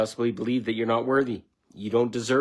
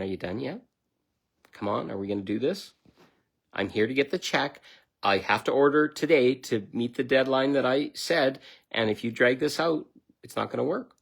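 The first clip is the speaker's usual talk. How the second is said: calm and firm; 2 semitones higher than usual. Retold or imitated. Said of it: "I was so calm about it".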